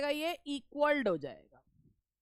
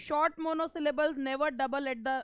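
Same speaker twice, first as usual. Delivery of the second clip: very slow, spaced-out reading of the rule; much slower than usual. Shown as a demonstration. Teacher re-reading the rule for students, very slow. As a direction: read the rule out again, word by word. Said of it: "re-reads the rule".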